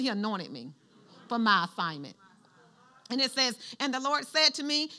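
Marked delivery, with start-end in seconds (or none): 0.0-2.1 softer call and response. Shown as a demonstration. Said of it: "Somebody say".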